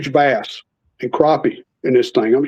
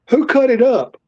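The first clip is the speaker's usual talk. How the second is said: higher-pitched mock interrogation; retold anger; 8 semitones higher than usual. Boss asking who cut up the fish, mock indignant. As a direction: imitate an angry boss looking for the culprit. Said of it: "because Jerry was mad".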